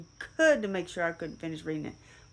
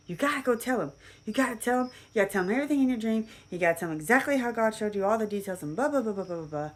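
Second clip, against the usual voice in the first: higher, louder, fast insistent granny; urgent granny; 6 semitones higher, 4 dB louder, faster than usual. Retold or imitated. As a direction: press him hard like a pushy grandmother. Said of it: "She's like".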